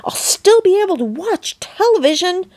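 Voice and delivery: squeaky whisper. A narrator's reading. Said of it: "squeaked the tiny voice".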